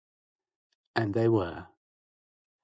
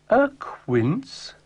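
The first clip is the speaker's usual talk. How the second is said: high squeak of disbelief; can't believe it's a quince; a sudden high, shocked "A quince?"; astonished question; 13 semitones higher than usual. Acted.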